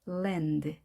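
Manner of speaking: 랜드 with a precise L, tongue tip touching; clear English L. Shown as a demonstration. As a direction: lips stretched sideways, tongue tip on for the L in 랜드. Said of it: "L 발음 정확하게 입술 옆으로 길게 혀끝 붙이고".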